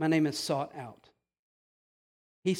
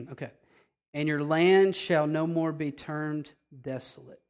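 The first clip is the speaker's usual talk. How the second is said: holding back tears; 2 semitones lower than usual. Real, not acted. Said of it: "I'm gonna have to say this without crying".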